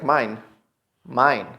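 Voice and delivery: "mine" with a long eye vowel; second part sounded out. Shown as a demonstration. Teacher separates determine's second part, "mine" with long I. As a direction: say "mine" alone, rhyming with fine. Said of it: "is pronounced like".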